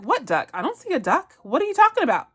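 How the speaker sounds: playing innocent. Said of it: "And then he's like".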